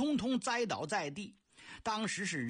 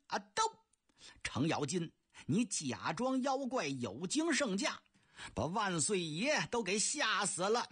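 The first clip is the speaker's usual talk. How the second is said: angry general. Acted. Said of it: "宇文成都怒火冲天".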